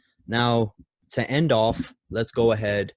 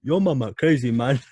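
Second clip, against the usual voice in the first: mock yell; 3 semitones higher, 6 dB louder than usual. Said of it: "she's like".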